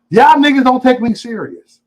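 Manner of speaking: high, drawn-out playful complaint; exaggerated whiny grievance; mock indignation. Real, not acted. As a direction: protest it way up in pitch, stretching it out. Mock complaint right after laughing.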